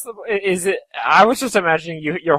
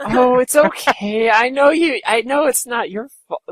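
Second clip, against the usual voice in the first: lightly voiced gentle tough guy; nice big guy impression; 7 semitones higher than usual. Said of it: "So he was like that".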